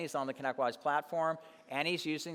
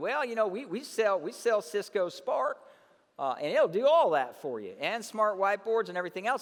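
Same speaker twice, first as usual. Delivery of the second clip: raised, high, full Southern drawl; 5 semitones higher, 5 dB louder than usual. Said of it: "he got a Southern accent, real Southern".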